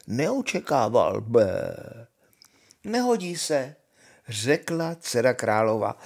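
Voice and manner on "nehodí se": princezna vysoko a rozhodně odmítá nápadníka; řekni „Nehodí se“ výše a důrazně na „nehodí“; rozhodné odmítnutí. Acted. Princess rejects first suitor. („Nehodí se“ vysoko, s důrazem na „nehodí“)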